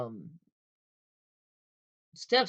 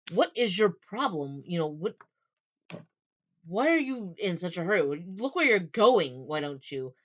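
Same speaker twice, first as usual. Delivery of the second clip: mild indignant scolding, pushed louder; launching into someone; 2 semitones higher, 4 dB louder than usual. Acted. Woman to the man who nearly bowled her over, indignant. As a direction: play an affronted telling-off. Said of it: "she immediately launches into".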